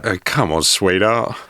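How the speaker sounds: light Cockney twang; Cockney market trader calling sweetheart; Cockney accent. Retold or imitated. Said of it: "not in a Cockney accent".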